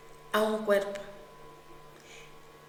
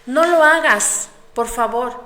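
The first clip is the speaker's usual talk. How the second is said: loud, slow, pleading cry; desperate plea; 3 semitones higher, 12 dB louder than usual. Acted. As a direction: beg him to stop in panic. Mujer suplica a su agresor. (súplica desesperada, gritando)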